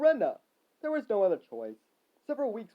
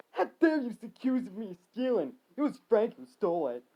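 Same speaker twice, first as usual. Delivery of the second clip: mildly raised indignant retort; yelling back; 4 semitones higher, 3 dB louder than usual. Acted. Billy denying the theft, indignant mild yell. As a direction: raise the voice in protest. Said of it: "Billy yelled back".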